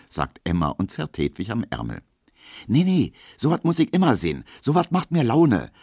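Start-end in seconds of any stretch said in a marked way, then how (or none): 2.7-5.7 hoch, laut und schnell, entschlossen; bestimmt. A narrator's reading. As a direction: sag es keck und lass dich nicht aufhalten. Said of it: "sagt Hedwig bestimmt". (Hedwig widerspricht Emma hoch und bestimmt)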